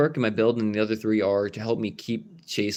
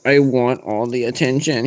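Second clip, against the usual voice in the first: voicing the pet; 5 dB louder than usual. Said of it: "you're just like".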